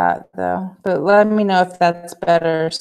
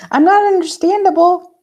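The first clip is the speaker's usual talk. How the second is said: laughing; 9 semitones higher, 5 dB louder than usual. Real, not acted. Laughing about the robot voice.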